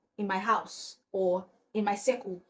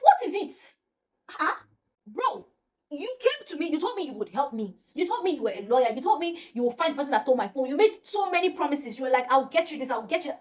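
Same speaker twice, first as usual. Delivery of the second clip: high-pitched retold outrage at the lawyer; indignant outburst; 5 semitones higher than usual. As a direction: reel off his broken promises, hurt and exasperated. Confronting the lawyer in retelling.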